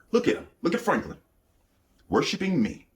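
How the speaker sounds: high-pitched, sneering demon voice; mocking demon. Fallen angel mocking Franklin to God, high sneering voice. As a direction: lift it up and sneer like a spiteful demon.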